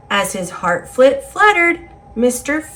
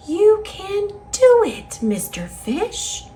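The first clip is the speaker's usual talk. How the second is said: sweet; 9 semitones higher than usual. A narrator's reading. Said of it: "her sweet voice said".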